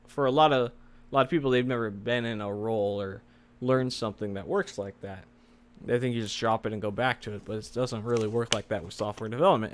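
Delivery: slightly slurred retainer speech; wearing a retainer. Real, not acted. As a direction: talk around a dental retainer. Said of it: "slurring my words a little bit. I have my retainers in".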